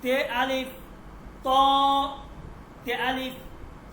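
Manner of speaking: তে আলিফ read as ত with a rounded অ; spelling drill for learners; letter sounding demo. Shown as a demonstration. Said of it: "আরো উদাহরণ দেই".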